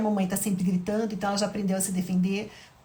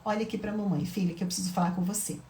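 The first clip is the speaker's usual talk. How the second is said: tender mother; 3 semitones lower, 3 dB quieter than usual. Shown as a demonstration. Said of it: "Segura a mão da Laís com carinho e fala".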